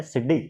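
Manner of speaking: सिड्डी said with a doubled, hard retroflex dd and short i; village word. Shown as a demonstration. Teacher giving the village word for ladder, सिड्डी said the village way. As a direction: village pronunciation सिड्डी, not सीढ़ी. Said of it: "आप उसको सिड्डी बोलते हो".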